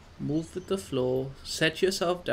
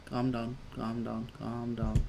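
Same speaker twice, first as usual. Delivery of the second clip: soothing; 3 semitones lower than usual. Real, not acted. Soothing the game character.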